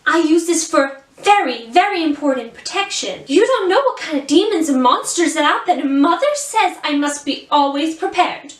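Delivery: put-on Rapunzel in a performed American accent. Rapunzel answering a question about her saucepan, in an American accent. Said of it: "permitted to do an American accent".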